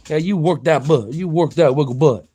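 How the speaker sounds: loud, playful cheering; hyping up the dog. Real, not acted.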